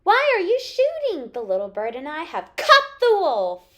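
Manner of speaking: put-on high, loud boyish protest; calling down. A narrator's reading. Peter stops the hunters shooting, loud calling. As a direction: call out loudly from up high. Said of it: "Peter called down from his tree".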